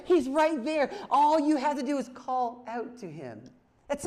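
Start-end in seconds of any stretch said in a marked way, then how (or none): 0.1-0.9 He's right there pushed higher and louder still, near a shout; climbing preacher's cry; even more emphatic. Real, not acted. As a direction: build it to a climax. Preacher repeats, building.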